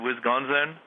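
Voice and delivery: quick comic stab at an Indian accent; badly faked Indian accent. Shown as a demonstration. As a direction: say Wisconsin in a put-on Indian accent, lifting at the end. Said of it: "I'll do Indian".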